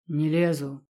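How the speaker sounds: ordinary delivery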